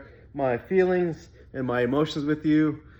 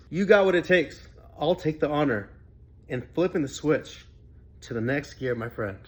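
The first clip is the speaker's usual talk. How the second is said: quoting with emotion; 4 semitones higher than usual. Retold or imitated. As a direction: read the friend's text with rising feeling. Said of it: "He goes".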